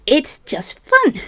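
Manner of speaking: slow, drawn-out "fun" with a rising sarcastic lilt. Real, not acted. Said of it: "Oh, is it not fun tonight?".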